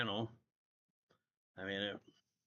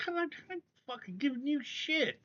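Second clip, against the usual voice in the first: retold anger; 14 semitones higher than usual. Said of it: "It's like".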